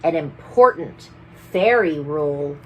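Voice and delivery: lively sing-song read-aloud; rhyming storybook reading. A narrator's reading. Storyteller reading a rhyming book to children. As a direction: read the rhymes to the children with bounce.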